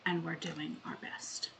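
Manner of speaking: deliberate spoken poem with long pauses; a solemn, measured plea for forgiveness; poem reading. Acted. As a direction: open each plea firmly, let the endings fade. Reads own poem aloud.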